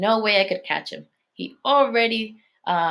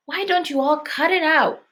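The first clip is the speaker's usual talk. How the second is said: put-on exasperated girl; 9 semitones higher than usual. A narrator's reading. Sharon pleading with everyone.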